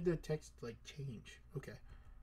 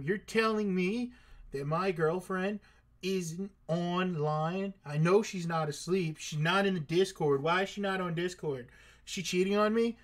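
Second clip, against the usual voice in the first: mock jealous rant, rising to a higher, louder peak; mock outrage; 4 semitones higher, 5 dB louder than usual. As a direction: play the paranoid boyfriend, getting louder. Suspects girlfriend of cheating.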